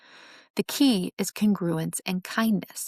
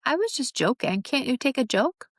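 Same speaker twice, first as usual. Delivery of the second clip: higher-pitched defensive excuse, lightly acted; mock-innocent protest, pitch raised; defensive brush-off; 5 semitones higher than usual. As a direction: brush it off as just a joke. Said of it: "gives the speaker an escape hatch".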